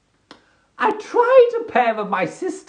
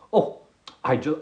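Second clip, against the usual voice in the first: ordinary talk, nothing marked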